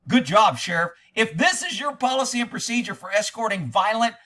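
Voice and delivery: starting very high, then a sarcastic rant; outraged disbelief. Retold or imitated. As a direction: scold the sheriff in disbelief. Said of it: "I was like".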